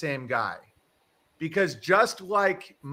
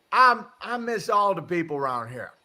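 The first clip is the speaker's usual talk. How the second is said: imitated folksy Southern accent; good old boy Southern; 4 semitones higher, 4 dB louder than usual. Host quoting the neighbor missing people around here, Southern accent. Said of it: "a good old boy".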